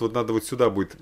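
ordinary talk, nothing marked

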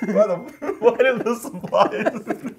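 slow, high, through a mouthful of water; spluttering words round a mouthful; mouth full of water. Real, not acted.

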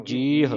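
ਜੀਹ as "jeeh" with h released; audible final h. Shown as a demonstration. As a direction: let ਜੀਹ end on a clear h. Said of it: "ਹਾਹੇ ਦੀ ਆਵਾਜ਼".

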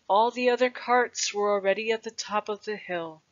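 ordinary delivery

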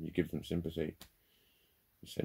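normal talking voice

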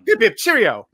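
high, laughing posh Englishman; hammy British cheer. Pretend.

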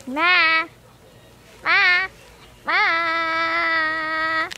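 drawn-out mock meow; imitated cat noise. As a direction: bleat like a cat, last one long.

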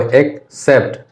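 एक्सेप्ट split into two syllables. Shown as a demonstration. Teacher showing students a two-syllable word, split syllable by syllable. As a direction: break एक्सेप्ट in two, ek, then sept. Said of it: "दो syllable का word हो गया".

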